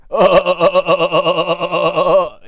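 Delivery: loud, wheezy mock Rogen laugh; Seth Rogen laugh. Reviewer imitating the Seth Rogen laugh, loud and goofy. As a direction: bust out a big goofy cackle. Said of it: "he didn't do the laugh".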